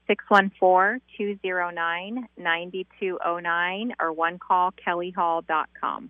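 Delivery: slow and carefully spelled out; over enunciating. Shown as a demonstration. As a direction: read the number slowly, each digit clear. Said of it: "Say that one more time slowly".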